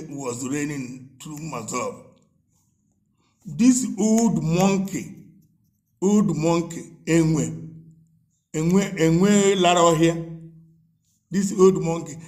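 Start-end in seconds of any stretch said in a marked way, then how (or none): 3.5-12.1 slow, drawn-out jeering insults; taunting name-calling. Real, not acted. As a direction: draw out each insult with scorn. Name-calling tirade against a politician.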